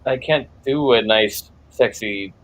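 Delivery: sexy voice. Real, not acted. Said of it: "you're doing one right now".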